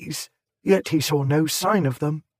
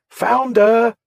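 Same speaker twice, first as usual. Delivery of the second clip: high, loud shouted cry; 7 semitones higher, 6 dB louder than usual. A narrator's reading. Someone in the crowd crying out, loud and high. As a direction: call it out over the mob. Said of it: "took up the cry".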